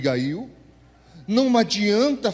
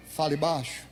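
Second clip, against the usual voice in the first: softer, telling someone to keep it down; hushed rebuke; 4 semitones lower, 6 dB quieter than usual. Retold or imitated. Arguing partner telling the other to speak lower. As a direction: shush them firmly. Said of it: "um deles fala assim".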